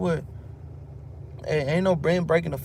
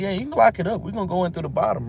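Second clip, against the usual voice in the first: smug priest; 6 semitones higher, 3 dB louder, faster than usual. Retold or imitated. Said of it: "And he's like".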